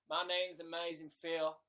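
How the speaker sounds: lightly put-on impression voice; fake Amazing Phil. Streamer pretending to be a rival vlogger, lightly voiced impression. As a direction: introduce yourself in a mock impression. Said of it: "Let me pretend I'm Phil".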